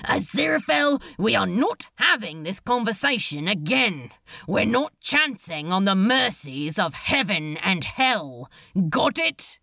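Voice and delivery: firm, through gritted teeth; understated exasperated scolding; mildly exasperated. Acted. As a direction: put your foot down with a touch of irritation. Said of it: "gritted his teeth".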